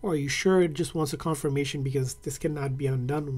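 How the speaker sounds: usual speaking voice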